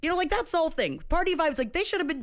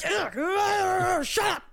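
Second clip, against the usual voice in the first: mock exasperation; 6 semitones higher, much slower than usual. Mimics show characters squabbling.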